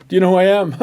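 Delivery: lightly voiced puffed-up braggart, with a laugh; preacher mocks an arrogant man, mild smug boasting. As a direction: strut it: a smug boaster who laughs at you. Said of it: "is arrogance".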